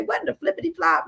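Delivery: high, quick, playful disbelief; a goofy catchphrase, tossed off fast; silly exasperation. Retold or imitated. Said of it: "Like, I always say".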